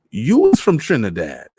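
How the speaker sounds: put-on an old man thrilled to meet a countrywoman; delighted. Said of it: "he asked delightedly".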